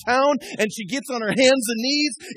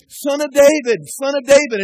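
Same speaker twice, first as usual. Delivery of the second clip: calling out louder, pleading; crying out; 6 semitones higher, 8 dB louder than usual. Retold or imitated. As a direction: beg for Jesus's attention. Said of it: "he's crying out".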